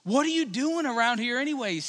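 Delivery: mildly irritated challenge; a touch of acted annoyance; angry demand. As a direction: confront him, understated. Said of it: "he was angry".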